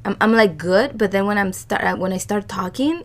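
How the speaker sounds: scratchy voice getting worse; hoarse, strained voice; voice giving out. Real, not acted. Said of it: "scratchier and scratchier".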